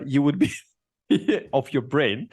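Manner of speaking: laughing through the words; a slipped phrase broken by a laugh. Real, not acted. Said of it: "I pardon myself".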